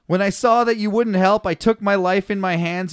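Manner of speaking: giggly scripture reading; laughing while reading. Real, not acted. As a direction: let the laugh leak into the words.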